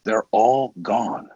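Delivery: retold old man's words, drawn out; slow, weighty echo of the veteran; slow, solemn repeat. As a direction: stretch out ALL and GONE slowly. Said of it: "In this shaky voice".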